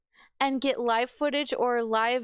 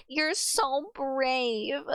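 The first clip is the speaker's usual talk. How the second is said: mock saccharine praise; 3 semitones higher, much slower than usual. Mocking parents' praise.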